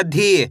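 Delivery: "धी" held long, then falling. Shown as a demonstration. Teacher leads repeat-after-me, long falling "धी". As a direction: draw out the ee in "धी". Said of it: "खींच के पढ़ा जाता है".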